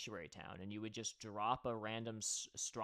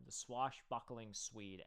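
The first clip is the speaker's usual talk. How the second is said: "The swashbuckling Swede" said slowly, each word savored; savoring the name; 3 dB quieter, slower than usual. Shown as a demonstration. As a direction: relish "swashbuckling Swede" at slow pace. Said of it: "say that just to themselves".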